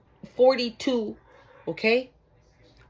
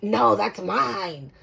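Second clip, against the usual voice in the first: indignant claimant; 4 semitones higher than usual. Retold or imitated.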